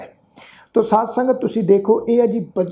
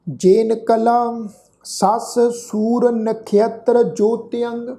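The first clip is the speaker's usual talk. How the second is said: very slow reading of ਜੇਨ ਕਲਾ ਸੱਸ ਸੂਰ ਨਖੇਤਰ in one flow; slow recitation; much slower than usual. Shown as a demonstration. Teacher reciting the line before the correction, slow recitation. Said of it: "ਇੱਥੇ ਵੀ ਖਿਆਲ ਰੱਖੋ".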